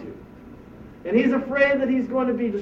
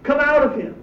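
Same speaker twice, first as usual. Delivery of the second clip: firm order to come out; stern command; 4 semitones higher than usual. Pretend. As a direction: command the spirit out. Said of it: "he said sternly".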